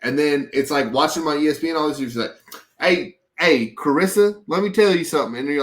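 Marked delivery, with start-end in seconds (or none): 2.8-5.4 lightly imitated country accent; a hint of country accent, slightly raised pitch; Randy Moss. Retelling Randy Moss talking on ESPN, lightly put-on country accent. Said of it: "a black guy with a country accent".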